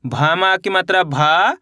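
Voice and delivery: slow, spelled-out teacher reading, building up भावेश; syllable by syllable. Shown as a demonstration. Teacher showing children how to blend letters, slow and sounded out. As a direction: sound out each letter, then join them into भावेश. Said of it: "देखिए किस तरीके से है".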